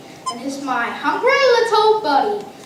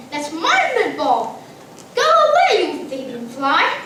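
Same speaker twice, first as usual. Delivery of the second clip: screaming at the fly. Retold or imitated. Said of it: "I screamed".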